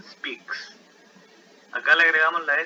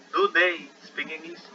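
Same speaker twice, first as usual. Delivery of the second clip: model sentence; 3 semitones higher, slower than usual. Shown as a demonstration. Teacher reads the example question to students, slowly. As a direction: Do they speak English? said slowly, word by word. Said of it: "They speak, eh, English, por ejemplo".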